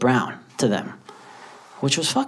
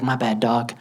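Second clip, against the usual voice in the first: consoling; 3 semitones lower, 5 dB quieter than usual. Retold or imitated. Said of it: "he tries to console me".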